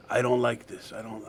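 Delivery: lightly put-on Colombian accent, low voice; half-hearted imitation of a Colombian accent; attempted Colombian accent. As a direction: have a rough go at a Colombian accent. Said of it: "forgive my accent".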